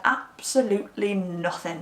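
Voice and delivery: curt, slow, mildly annoyed retelling; brushing her off, mock irritated. Lost and annoyed, snapping at the caller. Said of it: "I was just really annoyed".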